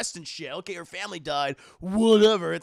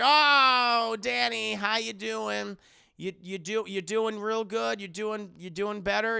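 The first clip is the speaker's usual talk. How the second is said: higher, louder, slow syrupy fake niceness; fake friendly greeting; 3 semitones higher, 4 dB louder, slower than usual. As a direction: overdo the sweetness to cover the awkwardness.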